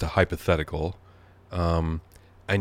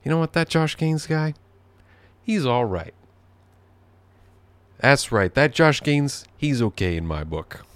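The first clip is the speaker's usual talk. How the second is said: imagined approving neighbor; 7 semitones higher than usual. Retold or imitated. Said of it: "look to each other and say".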